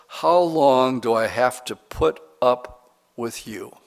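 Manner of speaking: drawn-out words with weighty pauses; slow, deliberate reading. Real, not acted. Pastor reading another translation to the congregation, slow and deliberate. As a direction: stretch it out so the question sinks in. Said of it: "read this slowly 'cause I want it".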